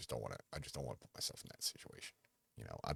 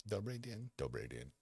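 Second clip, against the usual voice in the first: cashier greeting; 5 semitones higher than usual. Retold or imitated. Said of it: "they'll be like".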